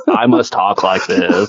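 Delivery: slow, lightly put-on flat American accent; flat fake American accent. Mocking the actress's flat American accent in a film. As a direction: mimic a stiff British actor faking an American accent. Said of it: "like Benedict Cumberbatch trying to do an American accent".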